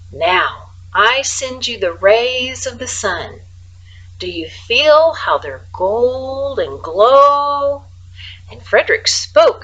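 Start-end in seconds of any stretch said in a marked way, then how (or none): 0.1-7.8 calm, enchanting. Acted. Frederick casting warm spell.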